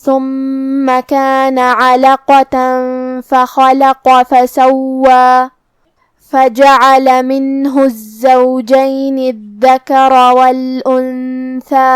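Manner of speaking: slow, drawn-out Quranic chanting; tajweed recitation. Shown as a demonstration. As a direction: recite with long held vowels. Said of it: "ہم اپنی آواز دو مد کے برابر لمبی کریں گے". (آہستہ تجوید کے ساتھ تلاوت)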